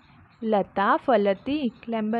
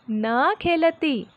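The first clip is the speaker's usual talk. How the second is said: slow model reading; 4 semitones higher, much slower than usual. Shown as a demonstration. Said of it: "teacher models the sentence".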